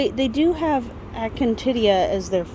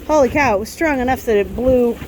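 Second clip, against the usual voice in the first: shouting over wind; 3 semitones higher than usual. Real, not acted. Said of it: "sorry about the wind noise".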